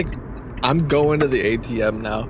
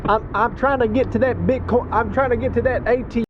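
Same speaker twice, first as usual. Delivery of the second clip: higher, hurried caller voice; flustered caller voice; 8 semitones higher than usual. Pretend. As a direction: play a frazzled driver on the phone.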